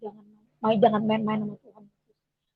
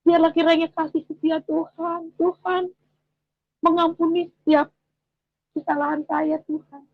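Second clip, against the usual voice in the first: retold tearful prayer; 5 semitones higher than usual. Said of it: "saya di situ di mobil itu saya nangis".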